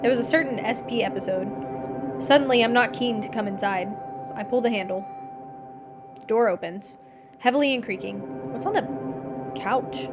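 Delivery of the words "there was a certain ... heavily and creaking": measured, even reading aloud; story narration. A narrator's reading. Narrator tells of visiting him, measured story reading. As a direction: read the tale out evenly, in first person.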